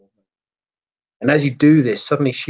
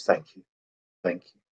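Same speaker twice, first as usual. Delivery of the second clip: quiet grateful thanks; 5 semitones lower, 6 dB quieter than usual. Acted. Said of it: "just goes".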